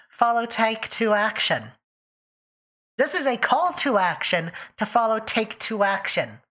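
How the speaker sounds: deliberate, proclaimed call to action; mock announcement. Streamer urging everyone in chat to follow, announcer-like proclamation. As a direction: proclaim it like an official notice.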